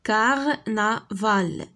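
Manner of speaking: slow, syllables drawn out; slow modelled word. Shown as a demonstration. Teacher sounding out a word for pupils, slowly. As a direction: sound out canari for the class. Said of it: "teacher models word slowly".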